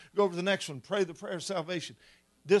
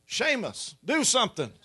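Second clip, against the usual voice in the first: higher, louder comic appeal; helpless teacher's plea; 5 semitones higher, 7 dB louder than usual. Retold or imitated. Overwhelmed teacher to pupil in weeping classroom, mock-desperate plea.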